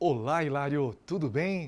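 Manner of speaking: affected slow, projected radio announcer voice. Imitating a radio announcer greeting Hilário, projected announcer voice. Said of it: "O cara já começa a impostar, ... aquela impostação de voz de locutor".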